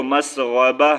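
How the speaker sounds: مسغبہ ending on H, not TIN; pausal stop. Shown as a demonstration. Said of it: "وقف کرنا چاہیں گے". (مسغبہ پر وقف، آخر میں ہا)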